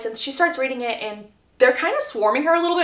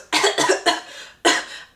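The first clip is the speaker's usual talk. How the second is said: acted bout of coughing; put-on cough; 6 semitones higher than usual. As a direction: fake excuse cough. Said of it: "I had a cough".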